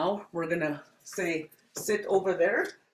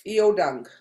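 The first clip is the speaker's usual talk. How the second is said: "Iodang" given as a louder classroom order; firm command; 6 dB louder than usual. Shown as a demonstration. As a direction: tell the class to sit with "Iodang". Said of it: "I would be going like this".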